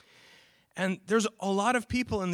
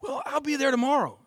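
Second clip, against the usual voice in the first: higher, lightly mocking reluctant voice; mock excuse; 9 semitones higher, 6 dB louder than usual. Preacher mocks people who delay God, a light mock voice. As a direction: put off God with a flippant excuse. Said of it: "some people go".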